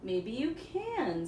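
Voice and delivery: slow, sly and teasing; sly crow voice. Acted. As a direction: draw it out like a trickster crow. Sly Old Man Crow.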